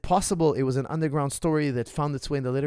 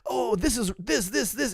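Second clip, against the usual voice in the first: mock rapid-fire critic; 9 semitones higher, slower than usual. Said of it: "was just machine gunning".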